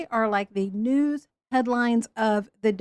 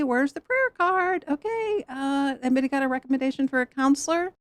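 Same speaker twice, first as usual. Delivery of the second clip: flustered; 3 semitones higher than usual. Retold or imitated. Flustered church friend backing off.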